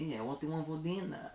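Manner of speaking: mock Spanish accent. Shown as a demonstration. Accent game with friends, Spanish accent. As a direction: put on a Spanish accent for the question. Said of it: "Spanish accent".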